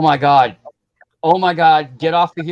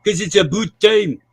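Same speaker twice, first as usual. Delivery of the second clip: mock Canadian accent; 3 semitones higher than usual. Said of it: "I had a Canadian accent".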